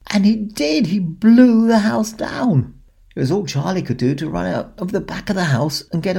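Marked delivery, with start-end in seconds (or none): 0.1-2.7 dramatic whisper. A narrator's reading. Dramatic storytelling climax.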